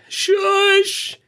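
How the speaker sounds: sudden high-pitched shush; high squeaky shush. Retold or imitated. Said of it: "there was a toss-up between".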